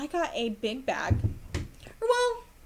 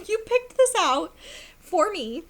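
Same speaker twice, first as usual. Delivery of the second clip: much higher and louder, stammering with joy; elated disbelief; 8 semitones higher, 6 dB louder than usual. Retold or imitated. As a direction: squeal it out, can't believe it. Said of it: "I was just elated".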